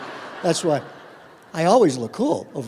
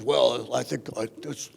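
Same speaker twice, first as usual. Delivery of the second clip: lower, softer, self-assured student; deep resonant voice; 6 semitones lower, 6 dB quieter than usual. Retold or imitated. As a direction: play the big confident student, smooth and low. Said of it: "deep, well-modulated resonant voice".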